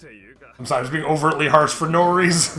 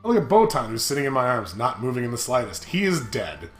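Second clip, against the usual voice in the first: story narration; 4 semitones lower, 5 dB quieter than usual. Acted. Reads game narration aloud.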